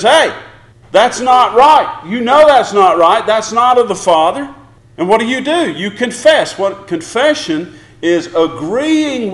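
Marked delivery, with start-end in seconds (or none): 0.0-4.5 voice of the Spirit. Retold or imitated. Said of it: "the Spirit says".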